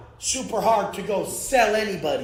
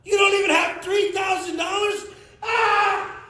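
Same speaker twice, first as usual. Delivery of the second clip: mocking shout; 9 semitones higher than usual. Real, not acted. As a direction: taunt them at full volume. Mocking broke critics.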